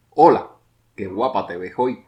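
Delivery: bright, loud greeting on Hola; cheerful exclamation. Shown as a demonstration. Teacher demonstrates an exclamation, greeting loudly. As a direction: call out a happy compliment. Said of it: "cuando la exclamación es parte de una frase".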